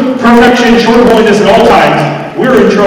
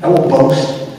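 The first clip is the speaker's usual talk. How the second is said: hushed, low, with weighty pauses; quiet scripture quote; 8 semitones lower, 8 dB quieter than usual. Retold or imitated. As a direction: quote it softly, letting each phrase settle. Quotes Paul's humble boast.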